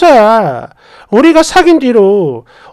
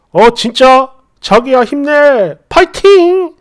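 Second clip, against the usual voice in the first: put-on cheery boyfriend; slower than usual. Boyfriend cheering on his crying girlfriend, peppy and oblivious.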